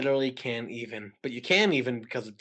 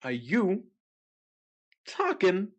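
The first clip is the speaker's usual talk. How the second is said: mystery impression; 5 semitones higher than usual. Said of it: "you have to guess who I'm doing".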